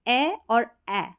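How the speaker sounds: ए और ए slowly, as egg and apple vowels; contrasted vowels. Shown as a demonstration. Teacher showing a small difference, ए और ए drawn out. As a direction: set the two short ए sounds apart, slowly. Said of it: "थोड़ा सा इतना आप difference देख सकते हैं".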